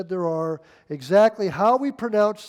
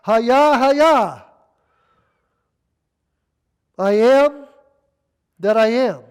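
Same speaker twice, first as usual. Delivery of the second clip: voice of God proclaiming; 3 semitones higher, 7 dB louder, slower than usual. Acted. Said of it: "He says".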